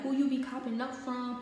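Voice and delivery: retold angry questioning; imitated going off. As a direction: imitate dad demanding an answer. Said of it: "He started going off".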